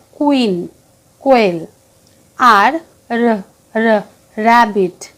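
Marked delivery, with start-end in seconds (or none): 2.4-5.1 র drawn out very slowly; slow phonics sound. Shown as a demonstration. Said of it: "উচ্চারণ কিরম হবে". (ধীরে টেনে র ধ্বনি)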